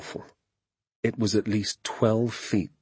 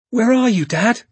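high, loud searching shout; calling out; 7 dB louder than usual. A narrator's reading. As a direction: shout for a father you can't see. Boy calls for unseen father.

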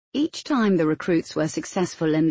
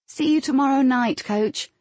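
mild shout, pitched up high; 7 semitones higher than usual. A narrator's reading. Recruits leaving the arena to their coach, shouting. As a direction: call out a parting line to the coach. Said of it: "each sure to shout".

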